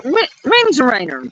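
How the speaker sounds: "refrigerator" as "rinjerainer" after a false start; struggling with refrigerator. Shown as a demonstration. Admitting she can't say it like them. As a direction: stumble into "refrigerator". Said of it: "I can't say it like y'all say it".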